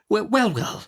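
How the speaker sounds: high, brisk stern aunt; Miss Betsy. Acted. Aunt Betsy interrogating the young mother, brisk and high. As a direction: snap the question like a stern old aunt.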